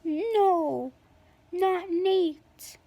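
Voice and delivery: a touch of mock-shocked disbelief; shocked dismay. Friend seeing Nate fallen on the stairs, understated shock. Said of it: "I was shocked".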